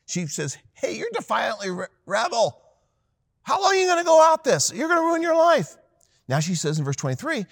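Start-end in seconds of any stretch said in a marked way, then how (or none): 0.7-5.8 high, loud scolding; exasperated shout. Acted. Wisdom yelling at the defiant rebel, high and loud. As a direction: shout the warning at a reckless kid.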